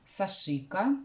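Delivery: "Сашика" with the stress moved to the middle, sa-SHI-ka; pronunciation variant. Shown as a demonstration. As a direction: hit the middle syllable of "Сашика". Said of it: "что я нашла".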